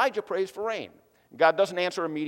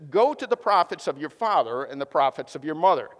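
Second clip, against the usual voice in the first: attitude; 4 dB louder than usual. Retold or imitated. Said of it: "Can you hear his attitude here".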